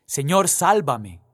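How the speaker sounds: cry for help. Acted. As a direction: call out as if sinking. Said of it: "Entonces gritó". (Pedro grita a Jesús, fuerte y lento)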